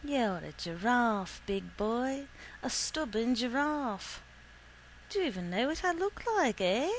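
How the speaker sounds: lightly voiced teasing young woman, lilting high; a touch of mocking sing-song; teasing girl. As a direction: swoop upward as she needles the big boy.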